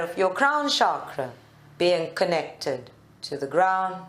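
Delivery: calm meditation guide with long pauses; guided meditation. Real, not acted. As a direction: lead them gently into stillness, leaving space between phrases. Leads a seated meditation.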